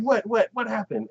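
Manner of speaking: high eager dad voice. Retold or imitated. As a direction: rush in asking.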